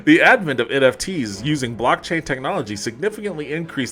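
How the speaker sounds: lightly mock-solemn corporate read; a hint of stately announcer; formal letter reading. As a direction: read it like an official address. Reads corporate letter aloud.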